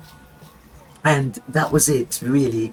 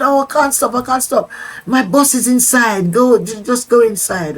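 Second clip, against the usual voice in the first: hurried; 7 semitones higher than usual. Retold or imitated. Woman in a hurry, acted.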